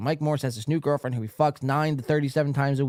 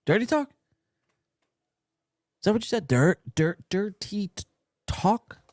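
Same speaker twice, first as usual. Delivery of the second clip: high, stretched "Dirty talk?"; slow, high incredulous repeat; mock disbelief; 7 semitones higher, slower than usual. Real, not acted. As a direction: sound appalled and amused at once. Mocking disbelief at the clip.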